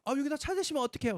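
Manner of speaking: high, fast complaining owner; annoyed shop owner. Retold or imitated. Realtor scolding the driver at her door, high and fast. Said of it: "주인이 나오더라고요".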